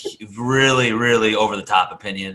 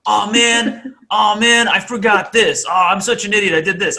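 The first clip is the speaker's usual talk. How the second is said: mock self-scolding; 9 semitones higher, 4 dB louder than usual. Imitating self-critical people.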